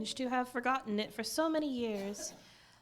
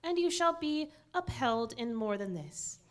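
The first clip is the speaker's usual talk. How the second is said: whispering ghost. A narrator's reading. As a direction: whisper it like a kind spirit. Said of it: "ghost reassures Scrooge".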